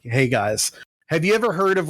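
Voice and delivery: halting, unsure mock pitch; hesitant first try. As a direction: start the pitch tentatively, fumbling. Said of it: "this is what basically he said is like".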